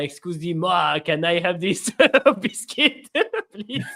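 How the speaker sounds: lightly hammed American-French accent, slow; a hint of an American faking French; American doing French accent. Shown as a demonstration. Host mocking tourists, light American-French accent. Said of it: "speak like how an American would do a French accent".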